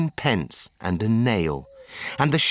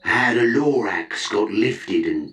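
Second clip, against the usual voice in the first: lightly voiced Onceler; 4 semitones lower than usual. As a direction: drag out the long ago like a tired old man. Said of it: "with his teeth sounding grey".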